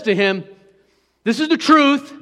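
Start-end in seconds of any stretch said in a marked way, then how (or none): 1.2-2.1 louder and higher, proclaiming the truth; emphatic declaration. Shown as a demonstration. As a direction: declare it boldly. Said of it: "That's in effect what he's saying".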